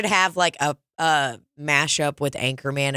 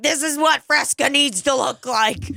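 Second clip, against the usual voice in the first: mock pitch; 10 semitones higher than usual. Showing the old Fresca logo, higher mock pitch. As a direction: sell it hammed-up. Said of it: "I'm like".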